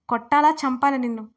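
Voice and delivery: loud, threatening roar; furious shout. A narrator's reading. Angry husband yelling at frightened Dharani, furious shout. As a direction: bellow the threat at her. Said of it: "గట్టిగా అరవడంతో ముడుచుకుపోయింది".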